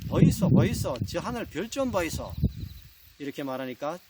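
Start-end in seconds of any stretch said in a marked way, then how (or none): 0.1-2.3 insistent copycat call in Gyeongsang dialect; Gyeongsang bride. Acted. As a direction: urge your husband to look, with Gyeongsang intonation. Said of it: "경상도 신부가 따라합니다". (경상도 사투리로 조르는 신부)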